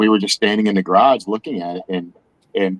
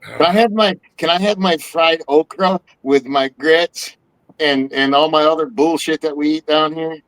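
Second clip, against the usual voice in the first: mock Southern order; 6 semitones higher than usual. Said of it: "You know".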